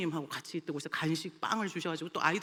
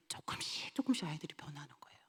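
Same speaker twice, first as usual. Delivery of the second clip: whispered, faster, full of wonder; hushed whisper; 5 semitones lower, 9 dB quieter than usual. Real, not acted. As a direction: breathe it out softly, in awe. Moved, hushed report.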